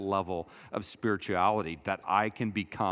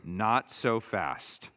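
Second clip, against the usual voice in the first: Lee Corso line; 2 semitones lower, slower than usual. Retold or imitated. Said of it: "In the words of Lee Corso".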